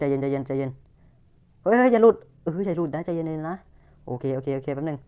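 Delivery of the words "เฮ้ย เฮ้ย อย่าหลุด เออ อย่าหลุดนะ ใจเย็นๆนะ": anxious pleading. Real, not acted. Pleading the frozen enemy stay.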